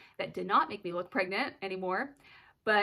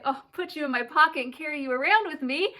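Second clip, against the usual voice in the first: higher, faster doting coo; gushing, doting; 6 semitones higher, 6 dB louder, faster than usual. Retold or imitated. Mother gushing over her daughter's sweet compliment, doting. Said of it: "I was like".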